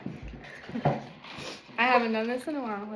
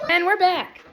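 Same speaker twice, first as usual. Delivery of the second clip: TV host voice; 5 semitones higher, 5 dB louder than usual. Acted. Show host announcing return.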